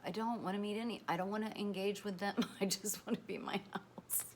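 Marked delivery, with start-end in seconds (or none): 2.6-4.2 laughing whisper. Real, not acted. Telling followers she wants home, laughing whisper. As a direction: whisper it as a cozy confession.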